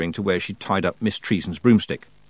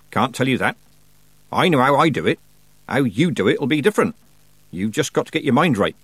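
higher, emphatic no-nonsense teacher; brusque old witch; 4 semitones higher, 3 dB louder than usual. Acted. Old witch refusing to spell it out, brusque. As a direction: put the pupil straight.

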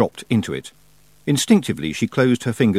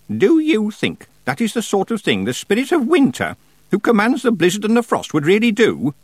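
put-on stern old witch; 12 semitones higher, 4 dB louder than usual. A narrator's reading. Miss Treason challenges.

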